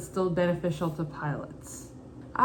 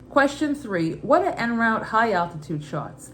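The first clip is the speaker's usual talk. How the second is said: put-on Brooklyn accent; 3 semitones higher than usual. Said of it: "Every question I'll read in my mother's Brooklyn accent".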